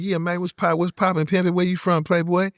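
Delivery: Bay Area Mexican slang. Retold or imitated. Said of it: "They talk like".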